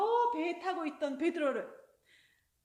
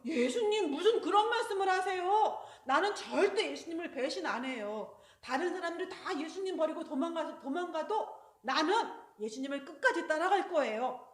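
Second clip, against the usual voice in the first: louder, proud protest; boasting loudly; 2 semitones higher, 5 dB louder than usual. Acted. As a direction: puff up and promise loudly. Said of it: "하고 큰 소리 쳤어요".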